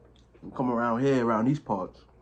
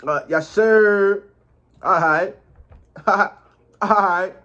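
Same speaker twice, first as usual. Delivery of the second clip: excited; 7 semitones higher, 7 dB louder, much slower than usual. Real, not acted. Playful reaction to food.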